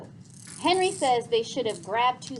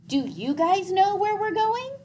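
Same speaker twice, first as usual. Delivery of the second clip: put-on higher, louder, urgent plea from a frightened boy; panicked boy; 10 semitones higher, 6 dB louder than usual. A narrator's reading. Gregor begging the leaving bats to stay, panicked. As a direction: beg them not to go, rising panic.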